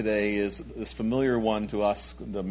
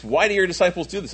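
indignant Pharisee; 7 semitones higher, 5 dB louder, faster than usual. Retold or imitated. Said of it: "they say to Jesus".

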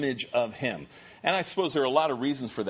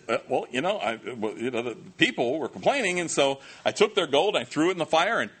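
sheepish excuse; 4 semitones higher, 3 dB louder than usual. Retold or imitated. Aaron's lame excuse voiced.

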